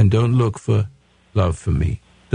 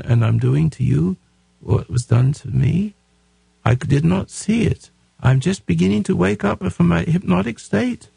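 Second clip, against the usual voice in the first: a lightly voiced mother talking to her little boy; voicing the mother to her son; 5 semitones higher than usual. Host voicing the mother apologising to her son, lightly voiced. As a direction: model the apology for her, gently. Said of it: "say, Joey".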